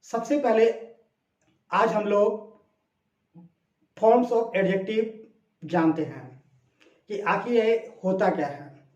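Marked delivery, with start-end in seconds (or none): 4.0-5.1 slow emphasis. Shown as a demonstration. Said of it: "teacher stresses topic term".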